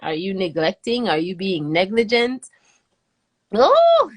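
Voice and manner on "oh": heavy sigh. Real, not acted. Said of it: "heavy sigh".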